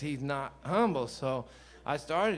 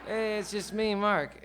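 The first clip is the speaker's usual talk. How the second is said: higher, bright gotcha reveal of the prank; playful friend reveal; 6 semitones higher, 4 dB louder than usual. Retold or imitated. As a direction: drop the act and let him in on the joke. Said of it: "then he'd always say".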